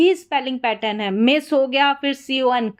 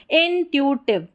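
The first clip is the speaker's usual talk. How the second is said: इंट्यूटिव split as in, tu, tiv; slower, in parts. Shown as a demonstration. Teacher models the word for practice, split up. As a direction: separate इंट्यूटिव into its pieces.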